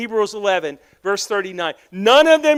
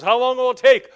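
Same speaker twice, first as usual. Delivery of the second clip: Abraham asking; 4 semitones higher, 5 dB louder than usual. Retold or imitated. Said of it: "And Abraham goes".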